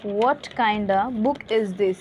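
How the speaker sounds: "kind of" merged into kinda, slowly; slow phrase with kind of said kinda; reduced kind of. Shown as a demonstration. Teacher modelling for students, reduced pronunciation. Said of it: "इस तरह से मैं हमेशा पूछती हूँ".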